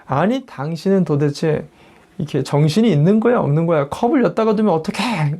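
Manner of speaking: retold husband's scolding, rising at the end; mock angry outburst. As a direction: act out a mild flare of temper at the wife. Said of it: "버럭 화를 내면서".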